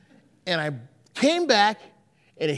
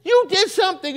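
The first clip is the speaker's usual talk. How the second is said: dazed surprise; 11 semitones higher, 4 dB louder than usual. Retold or imitated. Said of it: "I'm like".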